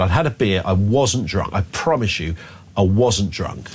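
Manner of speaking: ordinary talk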